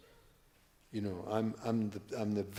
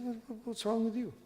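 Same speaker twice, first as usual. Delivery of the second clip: villager's voice; 10 semitones higher than usual. Retold or imitated. Villager asks again.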